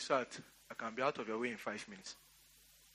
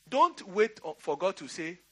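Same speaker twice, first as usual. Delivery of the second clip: forceful exhortation; 2 semitones higher, slower than usual. Real, not acted. Preacher urging the congregation, raised and forceful.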